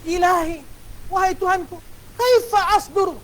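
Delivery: doa merayu dengan nada tinggi dan perlahan; pleading prayer. Shown as a demonstration. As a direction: rayu Tuhan seperti bercakap dengan kekasih. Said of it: "Kita nak cakap dengan Allah". (suara merintih bercakap dengan Allah)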